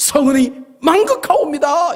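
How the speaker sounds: big, loud, fast, high-pitched exclamation. Instructing how to say a courtly phrase while bowing: loud and fast. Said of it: "이렇게 크게 빨리".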